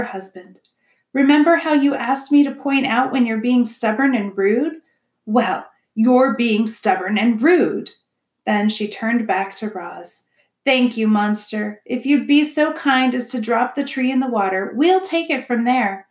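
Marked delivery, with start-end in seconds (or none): 1.1-7.9 louder, pointed reproach, slowing on the verdict; raised-voice wife telling him off; scolding beaver wife. Acted. Missus Beaver scolds her husband. 10.7-16.1 lightly voiced beaver wife, pitched up; a hint of a gracious wife, slightly raised; polite beaver wife. Missus Beaver instructs the robot.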